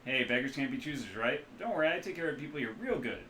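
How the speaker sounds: loud, high, boisterous mechanic-doctor voice; hungover rigger. Acted. The rigger doctor jokes to the runners, loud and jolly. Ambrose reassures.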